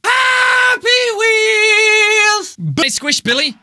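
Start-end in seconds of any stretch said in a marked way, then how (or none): 0.0-2.6 long, stretched-out yell of the show name; drawn-out shout. Acted. A YouTuber yelling his show intro at the fans. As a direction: bellow it slowly and hold every vowel.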